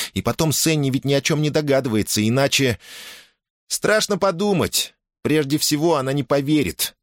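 put-on high-pitched, insistent girl's voice; anxious girl in command. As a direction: take charge, then grow worried. Girl takes command, worries.

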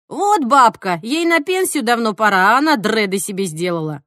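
mock indignant onlooker, punchy start; imitated busybody outrage; scornful gossip. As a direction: sneer at her like a judgemental passer-by. Imagined scornful onlooker judging.

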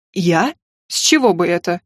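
low, hoarse male-character line. A narrator's reading. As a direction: drop low and husky, as the king. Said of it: "хрипло проговорил король". (хрипло, низким голосом)

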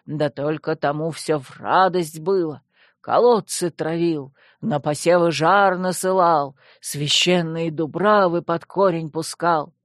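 measured, lilting folk-tale recital; lightly intoned old legend; singsong storytelling. A narrator's reading. Skeleton recounts the sorcerer's tyranny, singsong. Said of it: "нараспев начал скелет".

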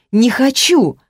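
high, loud refusal; shouting no, pushing him away. A narrator's reading. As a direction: cry it out at him. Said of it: "закричала я".

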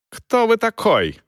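defiant, loud and high challenge. A narrator's reading. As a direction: challenge him loudly, defiantly. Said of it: "вызывающе громко спросил оратор".

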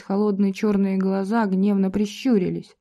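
ordinary delivery

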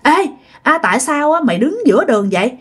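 mildly acted drunk man telling someone off; drunken scolding. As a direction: scold like a tipsy elder, lightly. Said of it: "ổng chửi nói".

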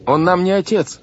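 high, urgent protest; crying out. A narrator's reading. Boy denies the captain is their father, crying out. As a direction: shout it in a boy's high pitch. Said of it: "закричал Клаус".

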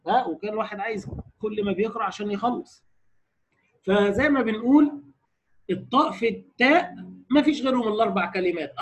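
ordinary delivery

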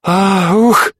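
a high outraged gasp cut short; indignant huff. A narrator's reading. Cordelia sputtering after her departing husband, a high indignant huff. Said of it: "возмущённое".

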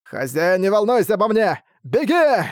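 rough dog growl, rising to a yell. Acted. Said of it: "и тот прорычал".

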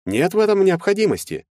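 calm him down condescendingly; smooth lawyer. A narrator's reading.

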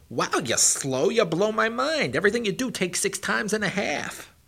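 high, loud, boastful hare voice; the fast hare showing off and mocking; cocky hare. Hare character mocking the tortoise.

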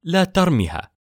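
a high, loud, sharp yell; sharp shout. A narrator's reading. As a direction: snap it out to stop her. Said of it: "فزعقت فيها سون غيليان بصوت حاد". (صرخة حادة عالية)

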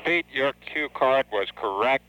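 radio-filtered voice; astronaut radio. Real, not acted. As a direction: read it over a mission radio link. Capcom talking over radio link.

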